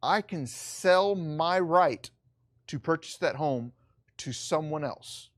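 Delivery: slow, plain restatement with pauses between phrases; deliberate, unhurried explanation. Shown as a demonstration. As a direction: spell it out slowly for beginners. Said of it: "slower and just straightforward".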